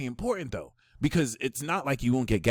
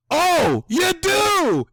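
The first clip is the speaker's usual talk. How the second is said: much higher and louder gasp of discovery; delighted surprise; 11 dB louder, much slower than usual. Real, not acted. Reader delightedly realizing the listener has the gift. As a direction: burst out as if you just found it.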